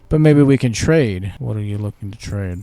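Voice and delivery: lightly voiced cheeky merchant; sly trader.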